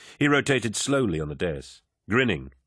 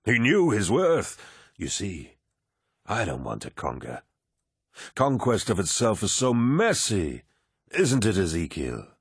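commanding warrior lord. Acted. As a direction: speak like a genial, mighty lord. Narrator voices Horus.

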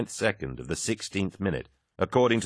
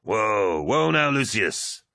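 alarmed cry; 3 semitones higher, much slower than usual. A narrator's reading. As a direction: call a halt, urgently. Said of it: "Aximand cried".

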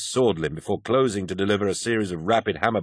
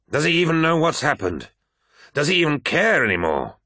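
high-pitched, anguished questioning; indignant outburst; 8 semitones higher than usual. A narrator's reading. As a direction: fling the questions out in frustration. Abaddon rages at absent Emperor.

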